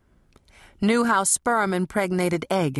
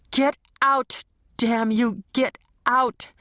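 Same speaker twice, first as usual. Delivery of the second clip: desperate shout; 5 semitones higher than usual. A narrator's reading. Fighting a presence inside her.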